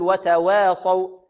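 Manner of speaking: وتواصوا with the long aa tilted towards ee, "watawee-sau"; tilted vowel error. Shown as a demonstration. Teacher showing what to avoid, fronted vowel in وتواصوا. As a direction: bend the وا of وتواصوا towards an e sound. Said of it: "لا نقللها ولا نميلها، لا نقول".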